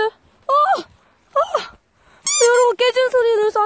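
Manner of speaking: loud, high, startled report; alarmed. Real, not acted. Telling viewers the ice just cracked, alarmed and loud. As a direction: blurt it out, shaken by the crack.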